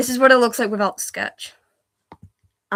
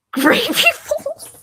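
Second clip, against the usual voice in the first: high laugh through the words; 5 dB louder, much slower than usual. Real, not acted. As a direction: crack up while saying it. Laughing at the typo.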